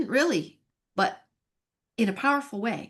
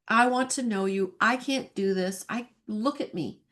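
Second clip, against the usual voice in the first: retold crying out; 3 semitones higher than usual. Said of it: "and just crying out".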